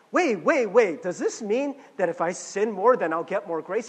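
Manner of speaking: Paul's eager question. Retold or imitated. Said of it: "And Paul is like".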